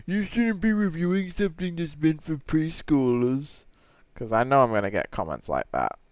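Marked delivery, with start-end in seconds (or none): 0.1-3.6 high-pitched whiny objector voice; mock complainer. Imagining comments on a review, mocking high voice. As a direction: mimic a critic in a higher put-on voice. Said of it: "so I don't get people saying".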